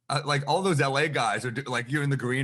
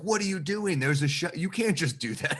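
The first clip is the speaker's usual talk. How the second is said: higher, mock alarmed woman's voice; woman scolding; 7 semitones higher than usual. Venue woman scolds comic for walking off stage, mock alarmed. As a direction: play the panicked venue woman. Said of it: "She's like".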